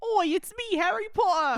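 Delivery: loud, high fake British voice; cheeky hammed-up British boy wizard; Harry Potter. Announcing himself to everyone, high mock-British Harry voice. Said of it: "I'm British".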